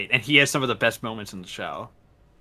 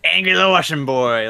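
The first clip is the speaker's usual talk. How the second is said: hype echo; 4 semitones higher, 6 dB louder than usual. Real, not acted. Cohost cheers the pick.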